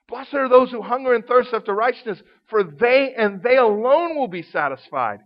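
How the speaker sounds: "alone" given the peak; emphasize "they and they alone"; leaning on "alone" at the end; stress on alone. Shown as a demonstration. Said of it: "we call it emphatic".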